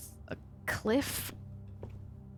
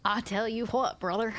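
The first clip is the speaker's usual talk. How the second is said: put-on country bumpkin accent. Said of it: "except for massively country bumpkin".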